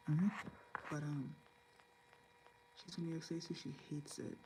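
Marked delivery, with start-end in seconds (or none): 3.4-4.4 hushed, with emphasis on hates; softly stressed hates. Real, not acted. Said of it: "Emphasis on the hates".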